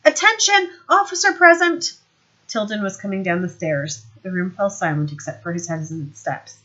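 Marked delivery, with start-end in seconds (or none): 0.0-1.9 much higher, loud parade-ground call; shouted command. Acted. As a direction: bark it across the room. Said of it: "He glanced past Vimes and shouted".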